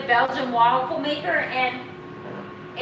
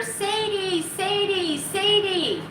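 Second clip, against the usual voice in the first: calling a dog's name; 7 semitones higher, slower than usual. Retold or imitated. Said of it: "when all of a sudden I hear".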